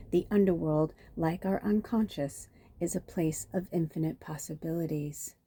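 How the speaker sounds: measured, even myth-reading voice; story narration. A narrator's reading. Reader telling listeners the myth of Persephone, measured narration. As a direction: read it out like a storybook, evenly paced.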